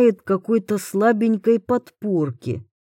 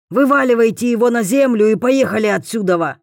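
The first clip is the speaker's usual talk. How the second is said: high, fast, shrill shouted order; shrill overseer; 5 semitones higher, 5 dB louder, faster than usual. A narrator's reading. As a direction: bark it, voice going shrill. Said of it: "визгливые нотки".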